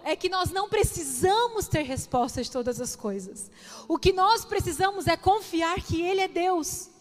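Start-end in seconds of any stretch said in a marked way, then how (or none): 3.9-6.9 raised, insistent preacher's delivery; emphatic preaching. Real, not acted. Preacher urging the congregation to trust God, emphatic preaching. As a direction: drive each phrase home to the congregation.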